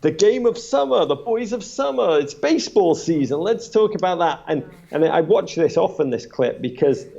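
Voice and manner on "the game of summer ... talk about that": imitating Brokaw. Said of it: "He goes".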